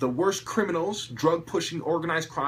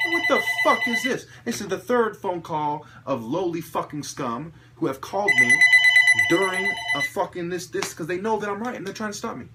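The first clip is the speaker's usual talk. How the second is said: loud, higher, cursing rant; angry outburst; 4 semitones higher, 5 dB louder than usual. Real, not acted. Vlogger fumes at prank callers, real loud anger. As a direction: snap at the callers interrupting you. Angry at repeated phone calls.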